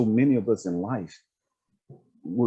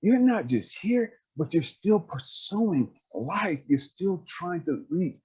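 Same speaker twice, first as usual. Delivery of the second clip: lightly voiced affirming speaker, pitched up; imitating an earnest, higher-pitched encourager; God; 5 semitones higher than usual. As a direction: build them up point by point, higher and emphatic. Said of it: "God was like".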